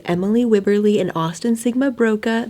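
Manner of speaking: talking with a retainer in; wearing a retainer. Real, not acted. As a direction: speak around a retainer. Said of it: "I have my retainer in".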